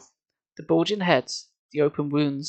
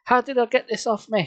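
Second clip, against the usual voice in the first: high, urgent plea; high pleading demand; 9 semitones higher than usual. Acted. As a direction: beg him for the answer. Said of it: "she pleaded".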